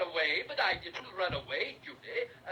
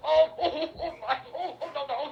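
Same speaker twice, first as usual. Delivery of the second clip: helpless giggling protests, pitched higher; laughing while tickled; 9 semitones higher, 6 dB louder than usual. Acted. Dragon being tickled by the children, laughing protests. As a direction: squirm and laugh as you're tickled. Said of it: "Tickle him".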